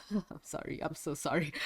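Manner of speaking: blocked nose, congested and stuffy. Real, not acted. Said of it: "I sound so congested right now".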